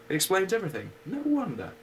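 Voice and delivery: hammed-up glum sigh of a donkey; gloomy Eeyore. Eeyore to Pooh about his lost tail, mock gloomy. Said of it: "said Eeyore gloomily".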